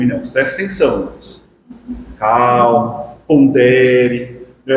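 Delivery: measured, low-key talk to oneself; inner self-coaching. Acted. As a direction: counsel yourself evenly, with pauses between cautions. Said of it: "no íntimo, você vai lá e fala". (diálogo interno ponderado, em tom contido)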